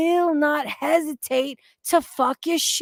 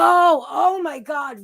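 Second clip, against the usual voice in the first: excited exclamation; 3 semitones higher, slower than usual. Real, not acted. Excited about Yaba's stream.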